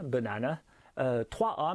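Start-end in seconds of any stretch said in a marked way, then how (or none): 0.0-0.6 "banane" with three differing A sounds; weak outer vowels, clear middle in "banane"; English pronunciation. Shown as a demonstration. Teacher comparing the three A, English "banane". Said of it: "qui se prononcent pas de la même façon".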